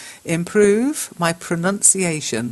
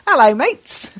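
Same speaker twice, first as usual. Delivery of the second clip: higher, louder Australian "Hello, mates"; a cheery mock Australian greeting; Australian accent; 9 semitones higher, 7 dB louder than usual. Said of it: "That's Australian, by the way".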